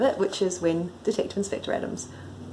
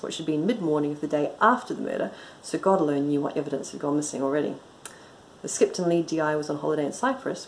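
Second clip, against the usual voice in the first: brisk, even audiobook reading; story narration. A narrator's reading. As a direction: read the story aloud with dry composure. Reads own story aloud.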